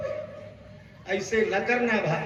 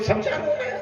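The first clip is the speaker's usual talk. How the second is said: high mock woman voice; 12 semitones higher than usual. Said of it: "तो बोली".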